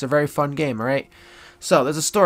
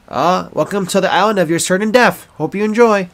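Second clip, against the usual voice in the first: hammed-up tour guide announcement, louder; 4 semitones higher, 5 dB louder than usual. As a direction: welcome the tourists like a cheesy guide. Playing island tour guide.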